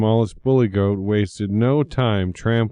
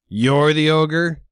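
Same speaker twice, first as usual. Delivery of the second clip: higher mocking jeer; 6 semitones higher than usual. A narrator's reading. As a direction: goat sneers at the little ogre. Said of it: "he jeered".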